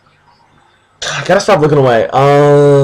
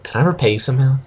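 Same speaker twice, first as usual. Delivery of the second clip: mock creepy murmur; 5 dB quieter, much faster than usual. Mocking the hero's line as a creep would say it. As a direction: make the nice line sound sinister. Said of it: "and you'd be like".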